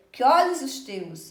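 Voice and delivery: "Que olhos" run together as "quiolhos"; joined vowels. Shown as a demonstration. Teacher reading a verse to show joined vowels, linked smoothly. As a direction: read "que olhos os teus" gliding "que" straight into "o". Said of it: "eu junto o quê com o ó".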